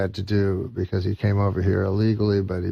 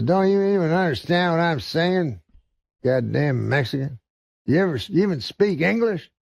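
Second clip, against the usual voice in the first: higher-pitched, indignant redneck; angry redneck; 8 semitones higher than usual. Acted. Redneck customer berates the Mexican bookseller, indignant redneck voice. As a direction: berate him as an exasperated redneck.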